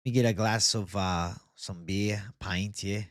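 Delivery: slow, lightly put-on Irish accent, McGregor-style; ordering a pint in a half-hearted Irish accent. Streamer slips into an Irish accent talking about beer. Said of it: "I sound like fucking McGregor".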